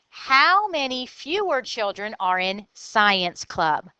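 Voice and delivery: slow it down for the class; a slow, clear reread of the question. Shown as a demonstration. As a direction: read it slowly, word by word. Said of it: "let me read it again slower".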